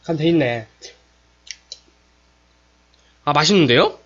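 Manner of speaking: chewing while talking; speaking between spoonfuls; mouth full of soup. Real, not acted.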